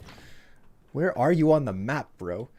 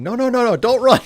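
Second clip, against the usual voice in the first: high, loud yell of a guy charging in; loud, high-pitched mock battle cry; 10 semitones higher, 7 dB louder than usual. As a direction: yell it like a brawler chasing his foe. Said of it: "some guy punching you while yelling".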